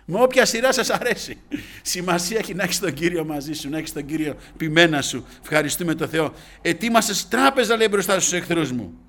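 high, loud exhortation; full-force preaching. Real, not acted. Preacher urging the church to have the Shepherd, full-force preaching. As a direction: drive each phrase home at full volume.

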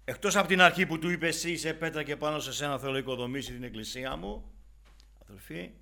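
high, loud preacher's cry; impassioned sermon climax; fiery preaching. Acted. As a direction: preach it out with fire, slowing at the end. Preaching at full force.

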